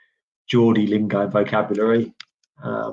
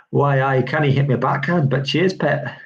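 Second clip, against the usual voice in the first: bad Geordie accent; 3 semitones higher than usual. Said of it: "I don't think that's a very good accent".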